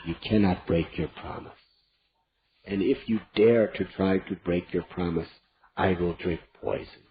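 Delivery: wrathful. Acted. Queen to king, wrathful cold threat. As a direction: threaten him coldly. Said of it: "with great wrath in her eyes".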